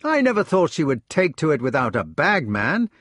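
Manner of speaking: high, fast, breathless enthusiasm; a young man who can't stop talking about his hawk; eager retelling. Acted. Gareth telling his brothers of the flight, eager and high.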